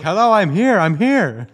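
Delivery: high, loud mock shout down the phone; frantic calling out. Telemarketer to prankster on the line, frantic calling out. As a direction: imitate an exasperated caller yelling to be heard. Retold caller insisting they're present.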